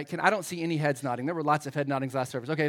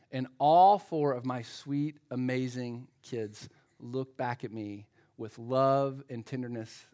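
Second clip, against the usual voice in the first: mock tender; 4 semitones lower, slower than usual. Mock-tender setup before kids' punchline.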